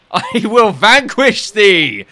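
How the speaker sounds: slow, loud, high mock-archaic boast; hammed-up villain. To a rival before the egg hunt, a hammed-up slow villain boast. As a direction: ham it up like a gloating knave. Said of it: "taking this sort of thing too far".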